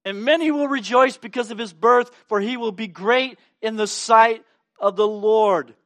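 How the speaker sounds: proclaiming angel. Acted. Preacher voicing Gabriel's promise, lifted and proclaiming. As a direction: announce it like a herald angel. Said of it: "through the angel Gabriel".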